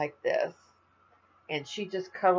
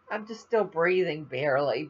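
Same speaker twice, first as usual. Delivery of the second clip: laughing tired. Real, not acted. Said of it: "I'm dead".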